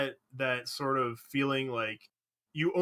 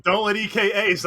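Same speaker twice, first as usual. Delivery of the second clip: loud, raised mock team yell; team screaming; 8 semitones higher, 9 dB louder than usual. Team warning each other about an ace, imitated loud yell. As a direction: call it out like alarmed teammates. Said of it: "My team is screaming".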